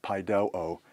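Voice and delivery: pai do o, accent falling on "do"; "pai do o" with the stress on "do". Shown as a demonstration. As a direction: lean on the middle syllable "do" in "pai do o". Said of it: "the acute accent".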